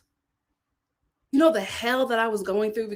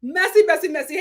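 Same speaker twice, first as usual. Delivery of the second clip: singsong catchphrase; 5 semitones higher, 6 dB louder than usual. Acted. Gossip show catchphrase opener.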